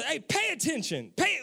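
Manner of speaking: a mild mock scold from an impatient parent; stern parent order. Parent telling the kids to listen, mild mock scold. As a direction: bark it lightly like a parent fed up with the kids. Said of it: "he's not saying it like that".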